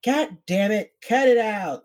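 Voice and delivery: mock exasperated scolding; mock cussing out. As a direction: act out friends snapping at you. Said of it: "are just cussing me out".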